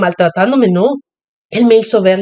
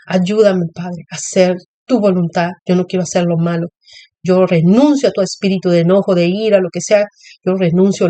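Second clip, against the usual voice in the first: prayer. Shown as a demonstration. Mother demonstrating how she prays, earnest prayer. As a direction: plead with the Father to take the anger away. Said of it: "Yo estoy dando testimonio de la manera en que yo lo hago".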